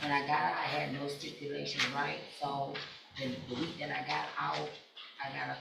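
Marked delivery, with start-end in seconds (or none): 0.0-2.2 raised voice at the start; louder opening, then steady volume; speaking up. Real, not acted. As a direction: repeat it more audibly on request. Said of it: "Speak up, please".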